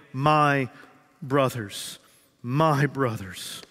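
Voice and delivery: "my" stressed and stretched slowly; tender, slow. Shown as a demonstration. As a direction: savour "my brothers" slowly. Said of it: "intimate and affectionate language".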